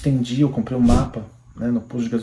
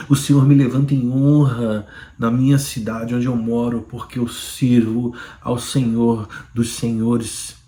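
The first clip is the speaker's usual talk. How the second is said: preaching. Acted. Believer testifying to viewers, preaching with fervour. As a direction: build it like a pulpit declaration.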